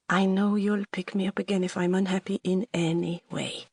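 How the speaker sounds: put-on light French accent, lilting. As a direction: reassure him in lightly French-accented English. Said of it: "your French accent".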